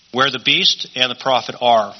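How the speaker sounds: "are" set apart with weight at the end; stress on "are". Real, not acted. Preacher points out the verb's tense, stress on "are". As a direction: lean on the final word "are". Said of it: "I emphasize the word "are".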